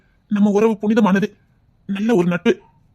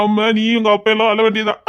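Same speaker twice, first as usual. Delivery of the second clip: low, mocking menace with a laugh; scheming man gloats over his plan; gloating villain; 3 semitones lower than usual. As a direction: relish the threat under your breath. Villain gloating about ruining her.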